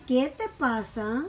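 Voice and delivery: QUÉ stressed, pasa lifted at the end; teacher's example question with emphatic QUÉ; question intonation. Shown as a demonstration. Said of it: "la pronunciación cambia".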